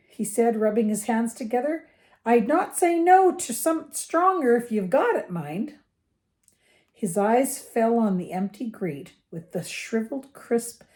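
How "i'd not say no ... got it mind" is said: Hagrid. A narrator's reading. Reads the giant's dialogue.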